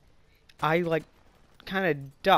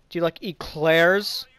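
teasing; 2 semitones higher, 8 dB louder, slower than usual. Retold or imitated. Teasing the bully on purpose.

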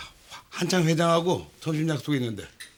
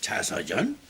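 whispering; 3 semitones lower, much slower than usual. Acted. Father struck by autobiography idea.

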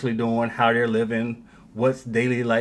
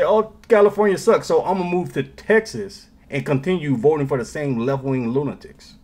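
mocking California transplant; 3 semitones higher, 3 dB louder than usual. Commentator mocking Californians moving to Texas, whiny mock voice. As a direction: sneer it like a clueless Californian. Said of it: "And then they'll say".

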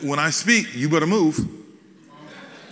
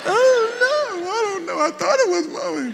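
imitating little daughter; 4 dB louder than usual. Father replaying his daughter's confused answer, much higher. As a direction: play the confused little girl, voice up high. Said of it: "one of my daughters said".

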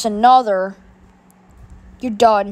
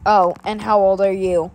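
lightly voiced bully question; 5 semitones lower than usual. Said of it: "having Rico come and badmouth you".

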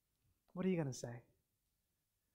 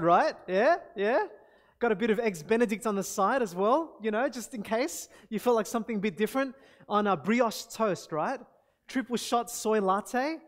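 a hint of a smug, showy son, louder in spots; 5 dB louder than usual. Son showing off breakfast to parents, lightly voiced smug kid. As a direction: sell it like a cocky kid fishing for praise.

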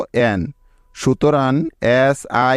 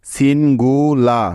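slow sounding out. Shown as a demonstration. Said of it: "মিলে হলো লা".

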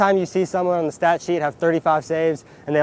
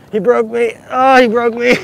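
laughing, worn out; 8 semitones higher, 7 dB louder than usual. Real, not acted. After the hard drill.

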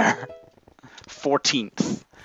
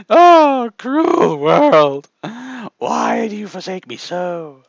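mock tragedy; slower than usual. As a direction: wail like a tragic hero. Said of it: "theatrical lament in game".

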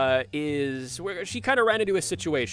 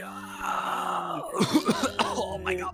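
strained, effortful voice; straining under weight. Acted. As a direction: groan under a heavy load. Straining to hold her up.

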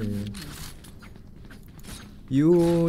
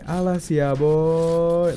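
cute anime voice; 4 semitones higher, 3 dB louder, much slower than usual. Retold or imitated. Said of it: "modelan suara anime".

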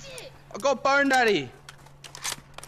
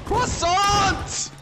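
higher, drawn-out mock-French cry; badly faked French accent; 5 semitones higher than usual. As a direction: call it out in a hammed-up French accent. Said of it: "I can't do a French accent".

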